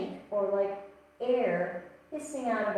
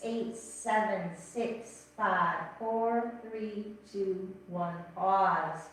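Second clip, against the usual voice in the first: slow counting; much slower than usual. Shown as a demonstration. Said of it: "exhale like a snake".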